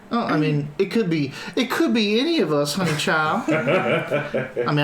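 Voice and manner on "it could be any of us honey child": Southern charm. Acted. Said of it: "I can put on some Southern charm".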